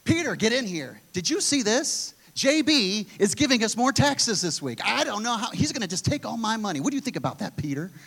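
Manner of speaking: a hint of an anxious Jesus; Jesus fretting about taxes. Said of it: "He'd be like".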